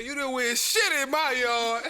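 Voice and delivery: loud, high mock yell; imitating an angry old man; angry homeowner. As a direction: bark it at the trespassers. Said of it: "He said".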